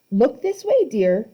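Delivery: high, syrupy grandmotherly coo; sickly sweet old lady. A narrator's reading. Old lady coaxing Grover to pose, syrupy high. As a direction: coax them sweetly like a granny. Auntie Em voice.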